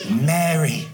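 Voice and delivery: low, tender single word; gentle naming. Acted. Jesus reveals himself to Mary, low and tender.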